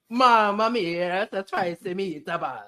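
put-on stretched-out hammy Italian accent; mock Italian accent. Host illustrating the Italian accent, mock Italian. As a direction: put on a cartoon Italian accent, drawing out the opening.

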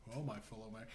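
a hint of a stately address; Obama's public speech manner, mildly imitated; formal presidential voice. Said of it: "he doesn't talk like that".

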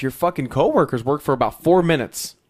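loud mocking scold, breaking into a laugh; scolding yell. Comedian scolding the guards onstage, loud and laughing. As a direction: chew them out, then laugh. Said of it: "And he goes".

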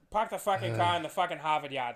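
lightly done Boston accent; a hint of a Boston accent. Shown as a demonstration. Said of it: "and then you can do Boston".

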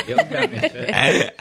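high, slow, stretched-out yo dummy shit; squeaky mock echo of "Yo, dummy shit"; hammed-up repeat. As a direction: drag out "dummy" way up high, mocking.

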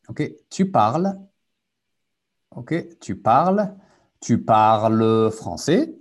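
"tu parles français" spoken slowly, rising at the end; slow model question. Shown as a demonstration. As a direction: spell out "tu parles" slowly for learners. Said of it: "teacher models the question".

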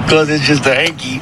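laughing. Real, not acted. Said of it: "I'm not laughing".

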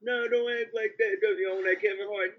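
a hint of whining imitation; lightly voiced pleading. Retold girl pleading not to leave.

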